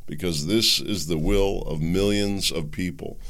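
measured address to the nation; deliberate public oration; formal speech reading. Acted. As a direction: read out a translated state speech in your own voice. Reads Putin's speech in own voice.

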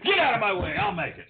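high, loud mock shout. Pretend customer storms behind the counter, mock shouting. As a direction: shove past in play-anger.

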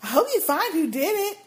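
mock cheerful. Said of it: "All cheerful".

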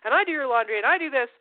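a touch of put-upon scolding; resentful martyr. Acted. Neat freak reminding a messy partner of every chore, resentful. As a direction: list each chore with stressed, mock grievance.

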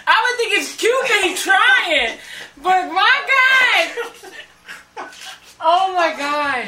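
trying not to laugh. Real, not acted. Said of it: "I'm like tearing, laughing".

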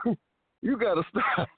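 pleading through laughter; laughing so hard it hurts. Real, not acted. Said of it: "can't breathe over it".

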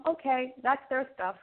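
lifted, singsong brush-off; breezy dismissal. Acted. Breezily dismissing a difficult person.

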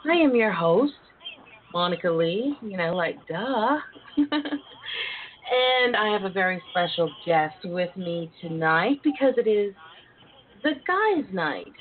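sultry host greeting; breathy vintage purr. Acted. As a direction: purr a welcome to listeners.

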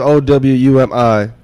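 slow, each letter separate; spelling out letters. Shown as a demonstration. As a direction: spell it out clearly for listeners. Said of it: "Alex, spell it".

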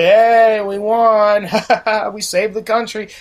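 loud, laughing celebration, acted out; mock victory cheer. Worker retelling his arrival after the election party, cheering. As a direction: re-enact a triumphant cheer with a laugh.

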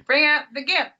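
loud, high menacing movie line; menacing movie quote. Acted. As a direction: bark it out like a villain. Acting Pulp Fiction quote.

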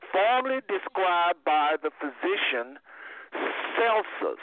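slow, measured reading of a definition; careful, spaced-out reading; reading aloud. Acted. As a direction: read it out deliberately, phrase by phrase. Reads out a definition.

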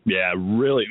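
groggy morning-after voice, a bit rough; hungover. Real, not acted. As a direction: talk like you're nursing a hangover. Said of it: "I'm all hung, hung over here".

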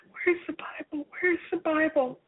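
urgent repeated searching question; frantic, hurried search. Retold or imitated. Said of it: "I said frantically".

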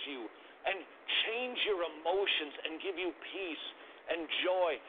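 a hint of a parent telling a child the good news; parent explaining. Shown as a demonstration. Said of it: "It might sound something like this".

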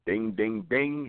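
rising dings for landed punches; imitated blows. Imitates punches landing in story.

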